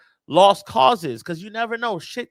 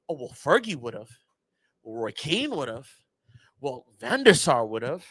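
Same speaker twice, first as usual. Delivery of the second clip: lower, slow mock whine of old-timers; mocking nostalgic fans; 6 semitones lower than usual. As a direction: lightly parody the nostalgic fans.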